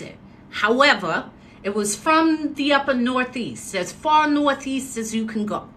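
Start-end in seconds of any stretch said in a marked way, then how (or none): 1.6-5.7 lightly put-on New England accent, pitched up; upper Northeast accent. Woman showing how he talked, Northeast accent. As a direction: lean into a far-Northeast accent. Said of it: "That's how he talked".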